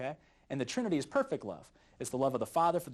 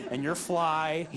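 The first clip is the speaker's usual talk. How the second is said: laughing Adam naming; 4 dB louder, much slower than usual. Retold or imitated. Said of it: "He's just going".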